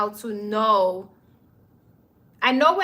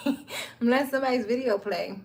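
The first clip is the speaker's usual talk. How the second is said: repeating it through a laugh; 4 dB quieter than usual. Real, not acted. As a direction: chuckle the words out. Laughing repeat of own line.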